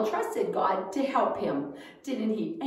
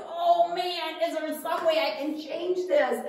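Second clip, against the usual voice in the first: worried king; 7 semitones higher than usual. Acted.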